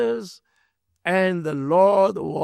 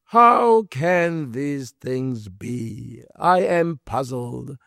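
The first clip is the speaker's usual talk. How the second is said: puzzled Nicodemus; 5 semitones lower, slower than usual. Retold or imitated. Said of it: "Nicodemus answers and says to Jesus".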